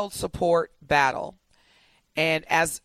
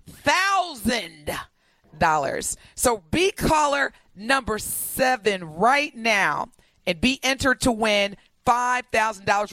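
upbeat radio ad read; radio contest promo. Acted. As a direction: pitch the giveaway like a DJ promo.

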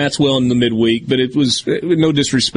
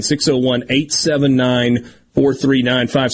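slow and deliberate, digit by digit; slow dictation. Real, not acted. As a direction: spell out the number slowly. Repeating the text line number.

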